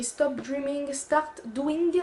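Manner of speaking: English slogan read with a plain French accent; English in a French accent, lightly apologetic. Real, not acted. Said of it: "Désolée pour l'accent merveilleux".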